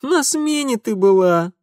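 high, mocking jab; mocking snort. A narrator's reading. Darinka mocking the lying girl, high and scoffing. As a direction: scoff at her lie. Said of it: "насмешливо фыркнула Даринка".

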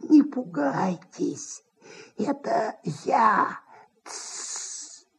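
slow nasal whisper, hissing like a frying pan. A narrator's reading. Manager hushes the frightened actress in a nasal whisper. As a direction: hiss it softly so no one hears. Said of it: "В гнусавом шёпоте".

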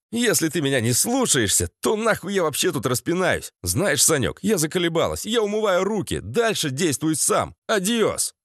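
fed-up, offended send-off; huffy rant. Acted. Offended paranoia quits in a huff.

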